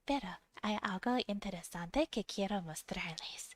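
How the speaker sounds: unvoiced whisper. Real, not acted. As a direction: breathe the words out.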